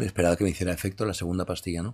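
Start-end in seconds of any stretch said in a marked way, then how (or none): none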